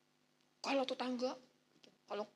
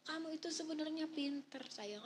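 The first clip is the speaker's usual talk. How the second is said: tender praise; 5 semitones higher, 6 dB quieter than usual. Shown as a demonstration. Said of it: "Padahal di sini udah mau bilang".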